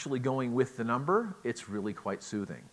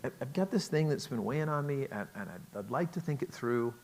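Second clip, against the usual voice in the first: soft startup; 2 semitones higher than usual. Shown as a demonstration. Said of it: "trying to be soft".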